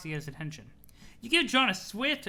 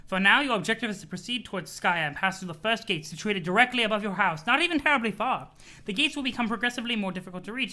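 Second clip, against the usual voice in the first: lightly voiced grand sprite, a bit louder; 2 semitones higher, 4 dB louder than usual. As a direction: play the mysterious sprite calling John dear. Voices the sprite telling John.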